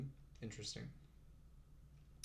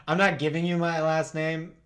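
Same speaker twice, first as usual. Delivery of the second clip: laughing, louder, refusing the name; laughing refusal; 3 semitones higher, 6 dB louder than usual. Real, not acted. Streamer laughing off a chat request for his name. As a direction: tease the chatter, laughing. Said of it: "Actually, yeah".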